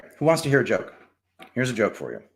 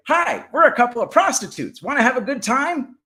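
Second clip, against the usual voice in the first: high, louder parrot squawk; 11 semitones higher, 5 dB louder than usual. Acted. Parrots greeting the praying parrots, high parrot voice. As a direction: chirp it up high like a cheeky parrot. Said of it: "the woman's parrots say".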